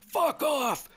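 a player shouting the curse on request; shouted curse. Retold or imitated. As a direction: yell it like you mean it. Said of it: "he yelled".

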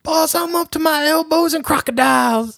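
very high, hammed-up Southern accent; mock a bad movie Cajun-Southern accent; Michael Rooker. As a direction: squeal it out in exaggerated Southern. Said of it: "I'm gonna try my best to approximate".

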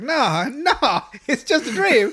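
high, loud mock protest; hammed-up desperate insistence; frantic denial. Cartman's frantic denial, acted out.

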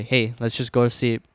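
casual tough-one act; nonchalant. Retold or imitated. Trying to be the tough one at bedtime, nonchalant. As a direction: play it cool, like nothing is wrong. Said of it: "I was talking like that nonchalant".

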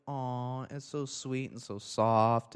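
slow, high, drawn-out coo; mock cooing. Acts out petting a cat.

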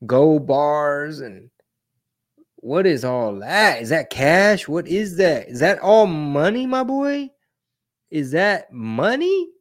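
high, loud astonished questions; amazed. Real, not acted. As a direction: gawk at the piles of money. Amazed at cash footage.

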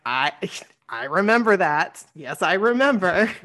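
imitating someone laughing as they recall; started laughing. Singer recalling the grass joke, laughing. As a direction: break into a light laugh mid-sentence. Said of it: "he started laughing".

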